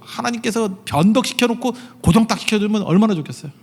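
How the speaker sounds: 너무너무 감사한 거야 with the whole church roused; fiery preaching. Acted. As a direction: pastor preaching at full force to the congregation. Rising to full preaching.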